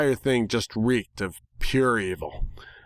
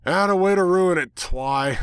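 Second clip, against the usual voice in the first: disappointed; 8 semitones higher, 4 dB louder than usual. A narrator's reading. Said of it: "I said flatly".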